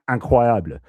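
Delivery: "incroyable" in French, stressed on YA; French pronunciation. Shown as a demonstration. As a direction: say an-crwa-YABL like a French word. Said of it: "the stress is on the third accent".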